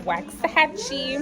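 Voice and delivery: Waxahachie said slowly, each syllable spelled out wax-a-ha-chie; careful place name. Shown as a demonstration. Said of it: "It's wax".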